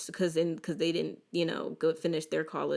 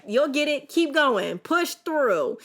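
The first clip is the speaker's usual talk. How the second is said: higher and louder, coaxing push; mom encouraging; 7 semitones higher, 4 dB louder, slower than usual. Retold or imitated. Mother pushing her crying daughter, firm encouraging. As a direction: urge the kid on like a firm mom. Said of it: "And my mama said".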